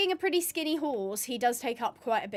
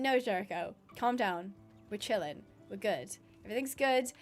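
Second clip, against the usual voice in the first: soft, calm words to settle an excited horse; quiet reassurance to her horse; soothing the horse; 4 semitones lower, 5 dB quieter than usual. Real, not acted. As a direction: hush him down gently.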